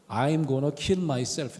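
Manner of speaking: very slow, quiet and heavy; a retold hollow confession, dragged out slowly; sudden low despair. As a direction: drop all the anger and let it sink. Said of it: "톤에서 갑자기 훅 떨어지더니".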